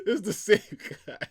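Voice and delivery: high, loud, laughed-out words; laughing. Real, not acted. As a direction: talk through a real laughing fit. Still cracking up at callback.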